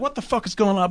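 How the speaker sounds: high mock disbelief; a confused high-pitched what the hell; bewildered. Imitating the hairdresser waking up confused. Retelling character's bewildered reaction.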